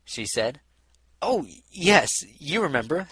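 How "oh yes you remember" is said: blustering. A narrator's reading. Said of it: "he said, blustering a little".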